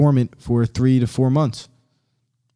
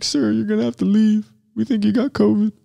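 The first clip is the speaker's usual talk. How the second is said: mock cashier voice; 7 semitones higher than usual. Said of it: "It's like".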